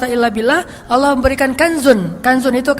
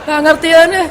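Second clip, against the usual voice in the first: louder, fast exasperation; loud, quick exasperated aside; 3 semitones higher, 4 dB louder than usual. Real, not acted. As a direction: sound fed up and push on quickly. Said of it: "exasperated preacher, louder".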